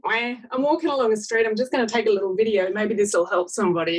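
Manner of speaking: mock-casual, rattled-off voice; casual, offhand. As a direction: imitate a casual, quick throwaway remark.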